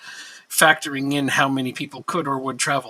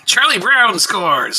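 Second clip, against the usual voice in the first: slow, loud goal call; excited shout; 4 semitones higher, 8 dB louder, much slower than usual. Real, not acted. Celebrating a goal.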